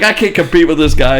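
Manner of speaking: high, loud mock despair; freaking out. Outplayed player giving up to Boston Rob, mock despair. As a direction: wail it like a beaten player. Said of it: "the guy just freaks out".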